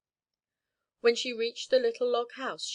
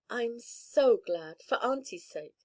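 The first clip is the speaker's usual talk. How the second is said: glad; 2 semitones higher, slower than usual. Acted. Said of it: "with shining eyes".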